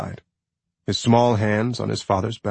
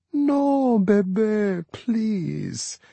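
embarrassed; 13 semitones higher, much slower than usual. A narrator's reading. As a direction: beg him gently, sorry. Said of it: "embarrassment ... obvious in her voice".

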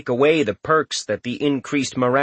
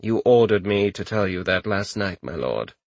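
sour; 5 semitones lower than usual. Acted. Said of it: "Randolphus said somewhat sourly".

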